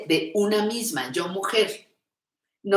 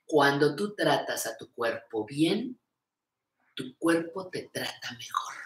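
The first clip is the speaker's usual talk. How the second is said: heartfelt repeat; 4 semitones lower, 5 dB quieter than usual. Shown as a demonstration. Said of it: "la repito, me gusta mucho".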